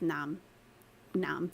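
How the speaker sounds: نعم said na'am in proper classical Arabic; formal classical yes. Shown as a demonstration. Contrasting slang with proper Arabic: careful classical نعم. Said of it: "the proper way to say yes".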